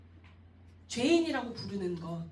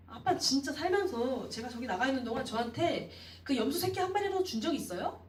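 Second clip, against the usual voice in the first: demanding accusation; 3 semitones higher than usual. Acted. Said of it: "아빠한테 막 따지는 거예요".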